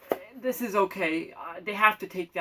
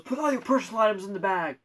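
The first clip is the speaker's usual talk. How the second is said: a touch louder, higher order; mock agent yell; 4 semitones higher, 7 dB louder than usual. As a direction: lightly bark the order again. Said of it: "she yells at me and goes".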